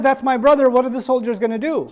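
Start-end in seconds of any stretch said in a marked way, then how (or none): 0.0-0.7 louder, exclaiming "That's my brother"; giveaway exclamation. Retold or imitated. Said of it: "if she says".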